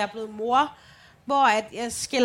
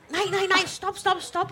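stop them; 7 semitones higher, slower than usual. Retold or imitated. Mother stopping children arguing.

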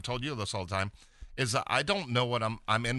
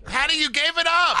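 loud laughing complaint; 10 dB louder than usual. Real, not acted. Mock accusation, laughing.

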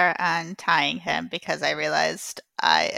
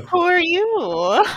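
high, loud, stretched-out question; exaggerated questioning; 10 semitones higher, 5 dB louder, slower than usual. Player questions the supposed predecessor, exaggeratedly drawn out. Player reacts to captive's claim.

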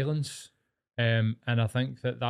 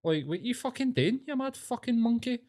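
higher-pitched incredulous outrage at the bystanders; outraged rant; 4 semitones higher than usual. Retold or imitated. Retelling a crowd scuffle, imitating an outraged bystander's rant. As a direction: rant at them as if you were there, voice climbing. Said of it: "and you're like".

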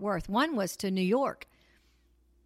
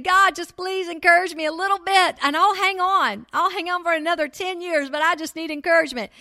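retold tearful prayer; 6 semitones higher, 5 dB louder than usual. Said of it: "and I'm crying again".

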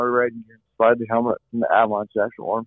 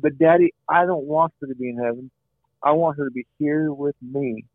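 a hint of a small boy, higher pitched, pleading; lightly voiced pleading child; 4 semitones higher than usual. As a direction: plead gently like a sad four-year-old. Four-year-old son pleading.

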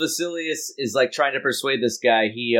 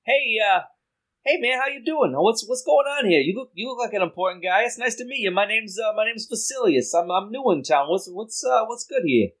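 higher, friendly schmoozing voice; schmoozing charmer; 6 semitones higher than usual. Acted. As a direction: lay on the charm, higher and chummy. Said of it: "so Vasilius is like".

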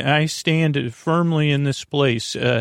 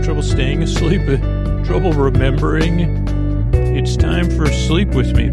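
podcast intro delivery; 5 dB louder than usual. Acted. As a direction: welcome the sleepless listener in, lingering on phrases. Podcast intro over music.

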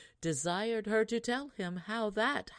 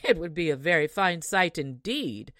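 put-on louder, sneering rude girl; ill-bred minx; 7 dB louder than usual. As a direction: scoff at the idea of fetching water. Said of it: "said this ill-bred minx".

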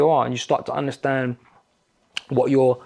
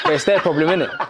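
higher, half-laughing pushback; teasing challenge; 4 semitones higher than usual. Pretend. Friend playing facilitator to annoyed friend, laughing challenge. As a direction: playfully needle the other speaker.

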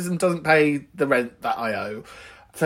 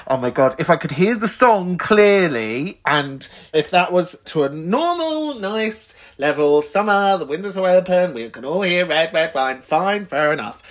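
retold exasperation; 3 semitones higher than usual. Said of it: "you're just like".

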